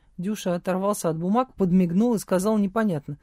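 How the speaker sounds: ordinary delivery, nothing marked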